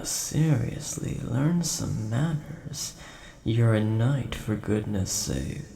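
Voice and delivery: indignant telling-off, leaning on key words; exasperated scolding. Acted. Dragon scolding a rude knight, exasperated. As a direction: scold them for their bad manners.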